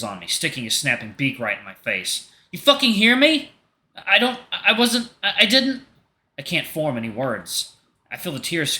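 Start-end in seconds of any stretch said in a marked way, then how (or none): 2.5-3.5 panicked angry shout. Acted. Artemis shouting at Leo and Hunter over the license, high furious yell. 3.9-5.9 high, slow, halting stammer; frightened stammer. Acted. Leo stammering at the furious Artemis, frightened high stammer.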